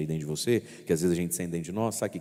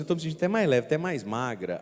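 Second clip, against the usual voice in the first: imitating a penitent; 6 semitones higher, faster than usual. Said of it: "a pessoa fala assim".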